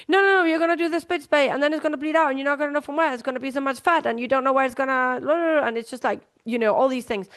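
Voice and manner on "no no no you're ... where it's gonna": higher, rushed worrying inner voice; panicky brain voice. Retold or imitated. Anxious brain warning the vet nurse, mock panicky. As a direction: voice the anxious brain spiralling about bleeding. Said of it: "your brain is trying to tell you".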